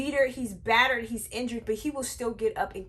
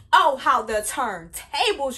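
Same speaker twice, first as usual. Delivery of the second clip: dramatic drawl; 7 dB louder, slower than usual. Real, not acted. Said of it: "dramatic reveal".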